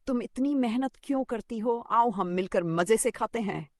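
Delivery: high, coaxing crow. Acted. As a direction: lure her in like a sly crow. Crow coaxes the sparrow.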